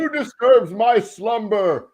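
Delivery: slow, high, loud spooky groan; a mummy woken from its tomb; dusty mummy rasp. Acted. Spooky greeting on joining stream.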